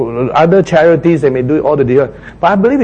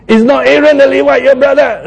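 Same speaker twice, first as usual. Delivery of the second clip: a first, milder angry rebuke, higher; angry God; 11 semitones higher, 4 dB louder than usual. Acted. Preacher trying out God's angry rebuke to Moses, a first attempt. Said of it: "I'm just trying to imitate God, say, as if he's angry".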